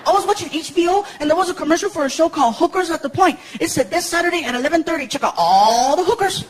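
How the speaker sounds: put-on high kid voice, slowing at the end; little boy explaining. Son tells stepdad about TV advert, high kid voice. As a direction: recite the advert like a small child.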